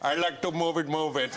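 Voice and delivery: lightly voiced cartoon king; a hint of a comic foreign character voice; King Julien. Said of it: "King Juliet".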